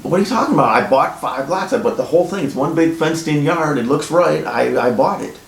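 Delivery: retelling an angry reply to the title company; pissed-off retort. Retold or imitated. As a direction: push back at the title company, indignant and disbelieving. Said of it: "Now I'm fucking naturally pissed".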